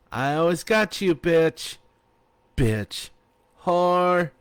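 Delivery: playful insults. A narrator's reading. Friends trading playful insults.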